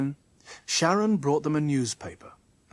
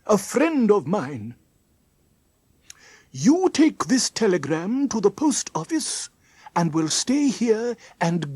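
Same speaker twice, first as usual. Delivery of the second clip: louder, raised character voice; Mister Trim giving urgent instructions; 6 semitones higher, 5 dB louder than usual. Acted. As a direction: send the children off on an urgent errand.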